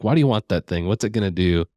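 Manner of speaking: usual speaking voice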